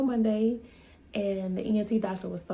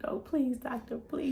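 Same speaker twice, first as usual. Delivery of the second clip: mock pleading; 5 semitones higher than usual. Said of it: "He was pleading".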